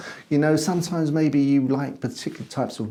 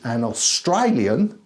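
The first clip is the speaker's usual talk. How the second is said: hammed-up Australian accent, swooping pitch; mock Australian accent; slower than usual. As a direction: put on a jokey Australian accent. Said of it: "would not do the accent".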